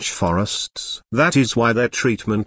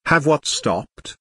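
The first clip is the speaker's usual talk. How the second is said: amazed question; 3 semitones higher, slower than usual. Acted. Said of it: "cried Ruth in amazement".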